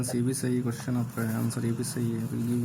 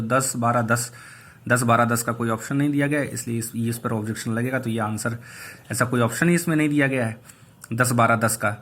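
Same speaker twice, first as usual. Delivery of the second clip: emphatic insistence; 5 dB louder than usual. Real, not acted. Insisting the option is missing.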